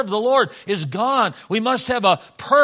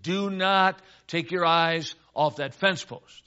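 slow, deliberate, word-by-word order; stern dad's warning; slower than usual. Acted. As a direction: space out each word as a warning.

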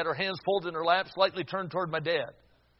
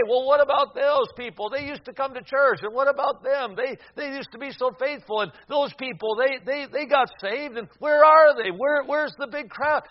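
doubters' complaint; 8 semitones higher, 7 dB louder than usual. Retold or imitated. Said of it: "We, we, we can say".

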